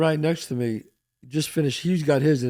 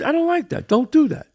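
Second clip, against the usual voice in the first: retold scolding; 12 semitones higher, 4 dB louder than usual. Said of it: "I said".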